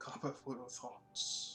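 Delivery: hushed, soft, slightly gruff whisper. Narrating a meditation scene, a voice beside the listener asks: somewhat gruff voice. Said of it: "a somewhat gruff voice comes beside you and asks".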